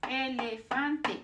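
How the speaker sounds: "Elefante" slowly but joined into one word. Shown as a demonstration. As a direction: say "Elefante" unhurriedly with full clear vowels. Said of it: "always the same".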